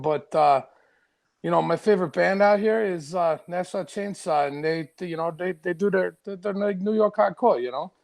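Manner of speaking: put-on a light New York Bronx accent, leaning into it; lightly voiced Bronx guy chatting about his band. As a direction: Bronx accent played loose. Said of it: "so you got that Bronx accent really good".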